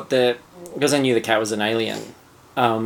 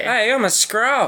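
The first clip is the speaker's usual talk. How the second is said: put-on much higher, slow, cocky Australian accent; Australian Skrull; 10 semitones higher, slower than usual. Mimicking the Skrull's Australian brag, high and drawn out. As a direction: stretch it out like a proud Aussie larrikin. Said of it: "a hundred percent Australian accent".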